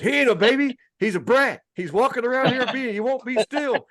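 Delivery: high, exasperated protest about the brat; grumpy dad. Retold or imitated. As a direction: argue back at his wife in a fed-up pitch. Dad retorting to mom.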